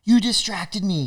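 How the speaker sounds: high, drawn-out indignant complaint; mock angry accusation. Angry local accusing him.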